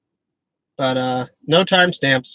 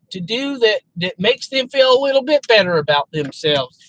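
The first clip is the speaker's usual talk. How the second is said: higher, fast whiny objector; mock objector voice; 6 semitones higher than usual. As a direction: play the skeptic pushing back. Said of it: "And how can you say".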